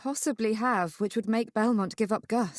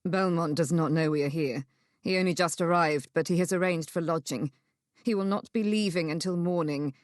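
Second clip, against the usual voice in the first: lightly voiced man, lower and steady; a hint of a lower male voice; measured male character; 4 semitones lower than usual. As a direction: explain calmly to hold someone back.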